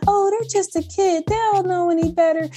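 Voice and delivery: mock excuse.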